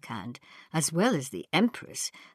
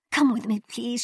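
high, pleading voice; begging; 7 semitones higher than usual. Acted. Ping Cho begs Susan to come, high pleading. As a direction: clutch her arm and beg. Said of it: "she begged".

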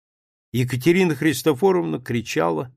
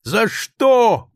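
loud, high anguished cry; drunken cry; 9 semitones higher, 6 dB louder than usual. A narrator's reading. Drunk guest cries out his grievances, loud and high. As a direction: cry out at the world. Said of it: "выкрикивал он".

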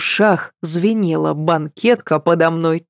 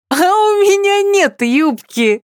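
gleeful; 14 semitones higher than usual. Acted. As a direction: crow it out happily. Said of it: "радостно засмеялась я".

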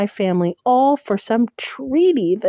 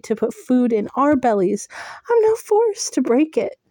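high, strained, rising to a cry; anguished vow; 4 semitones higher than usual. Acted. Heroine telling Tamlin of her vow, high and breaking. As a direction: fight back tears as you explain.

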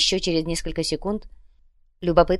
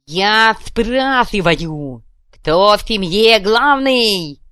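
very slow, loud question; slow loud demand; 3 semitones higher, 7 dB louder, much slower than usual. Acted. Kuvalda demanding who rules, slow and loud. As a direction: drag each word out threateningly.

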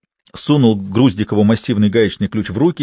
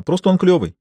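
smirking; 8 semitones higher than usual. A narrator's reading. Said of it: "ухмыльнулась она".

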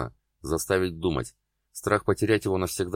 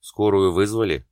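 shouted; 3 semitones higher, 6 dB louder than usual. Acted. Doctor yelling at the crowd about the ambulance, loud shout. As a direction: yell it so the whole street hears. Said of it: "проорал Ян".

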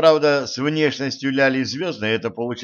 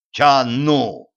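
louder irritated snap; snapping back; 5 dB louder than usual. A narrator's reading. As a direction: bite back at the father. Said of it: "огрызнулась Ляля Звёздная". (огрызаясь)

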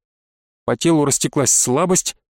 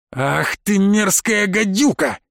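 slow, higher, outraged curse; furious outburst; 6 semitones higher, slower than usual. A narrator's reading. Boy curses the witch who taunts him, furious. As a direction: spit out the insult in fury.

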